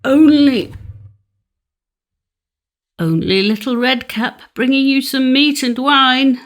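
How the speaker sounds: high, put-on little girl voice from the wolf; the wolf sweetly pretends to be Red Cap; a wolf's high false girlish voice; wolf faking a girl. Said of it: "answered the wolf".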